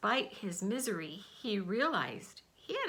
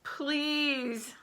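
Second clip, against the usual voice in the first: wailing; 6 semitones higher than usual. A narrator's reading. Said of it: "the fox wailed".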